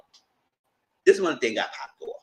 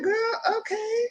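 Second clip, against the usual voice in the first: exasperated disbelief; slower than usual. Retold or imitated. Exasperated retort, high cry.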